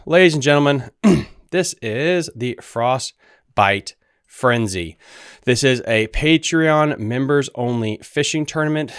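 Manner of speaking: slow, grand showman announcement; announcer voice. Acted. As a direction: present it like a ring announcer. Announces tournament, showman style.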